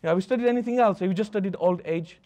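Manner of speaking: old man losing patience with his doctor, mildly hammed-up anger; mock angry old man. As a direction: play the fed-up patient snapping at the doctor, half in fun. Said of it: "He gets angry".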